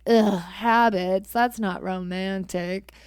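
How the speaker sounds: slow, bored "ugh, habits"; dismissive groan. Retold or imitated. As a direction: drag it out like it's a chore. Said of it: "everybody's like".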